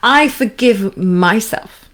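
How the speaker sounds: slow, kind and sincere; tender, slow self-forgiveness; with compassion. Shown as a demonstration. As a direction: say it gently and mean it. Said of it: "really with compassion, with kindness".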